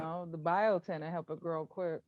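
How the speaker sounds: muffled mic in clothing. Real, not acted. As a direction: sounds far away. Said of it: "Why you sound muffled?".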